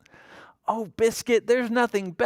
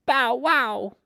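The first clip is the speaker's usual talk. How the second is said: whispered puppy bark; 10 semitones higher than usual. A narrator's reading.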